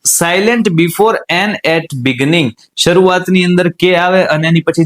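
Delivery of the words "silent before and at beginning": slow dictation. Shown as a demonstration. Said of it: "rule એવો છે".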